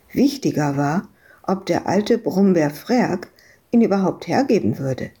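usual speaking voice

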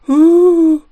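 lauter, hoher Schluchzlaut; gespielter Schluchzer. Acted. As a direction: ein gespieltes „Huh“ schluchzen. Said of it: "Und er weint schrecklich". (der Teddy schluchzt laut und hoch auf)

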